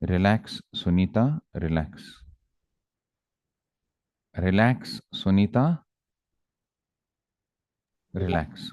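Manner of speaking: measured soothing words with long pauses; very calm. Acted. Mother calming herself beside crying daughter, very calm. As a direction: let each word settle, unhurried and composed. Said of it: "very calmly she said".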